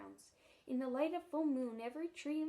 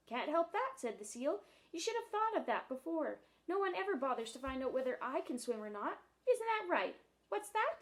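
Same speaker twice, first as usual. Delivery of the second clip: higher, louder grievance; grumpy seal; 4 semitones higher, 5 dB louder than usual. Acted. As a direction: complain loudly to the world. Seal argues bitterly.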